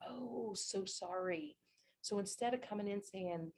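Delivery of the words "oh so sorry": slow, drawn-out "oh, so sorry"; apologetic. Shown as a demonstration. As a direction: model a sympathetic apology, stretched out. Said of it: "make sure you're like".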